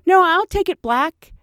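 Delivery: put-on high, slow earnest kid voice; mock grown-up boy. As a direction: act tough and serious. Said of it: "and he goes".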